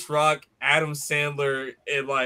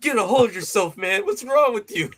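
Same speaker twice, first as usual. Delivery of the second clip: tag; 5 semitones higher than usual. Retold or imitated. Acted scolding reply from movie.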